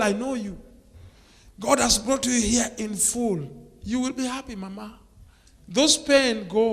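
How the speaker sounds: high, emphatic preaching with slowed stresses; fervent blessing. Real, not acted. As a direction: bless her from the pulpit with fire.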